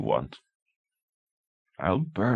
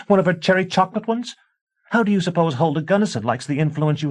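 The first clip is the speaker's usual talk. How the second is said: high, loud screaming tirade; screaming wife; 12 semitones higher, 5 dB louder than usual. A narrator's reading. A wife screaming warnings at her husband. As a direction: shriek the warning at him.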